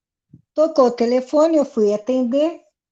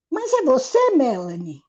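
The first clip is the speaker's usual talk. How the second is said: mock disbelief, pitched up at first; retold surprise. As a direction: imitate a puzzled caller double-checking. Caller doubts who is on the line.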